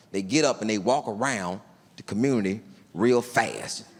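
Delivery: ordinary talk, nothing marked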